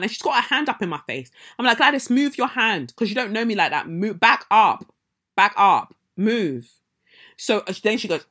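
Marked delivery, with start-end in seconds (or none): 1.8-6.7 firm retold warning. Ordering woman to back off.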